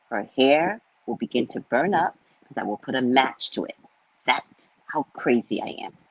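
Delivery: low, measured warning; deadpan threat. Retold or imitated. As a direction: deliver the threat low and evenly. Mock threat to her son.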